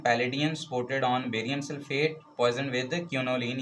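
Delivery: lightly slowed reading of the catalyst conditions; slow dictation. Shown as a demonstration. Teacher dictating the reaction conditions to students, slowly. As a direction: spell out the conditions slowly for notes.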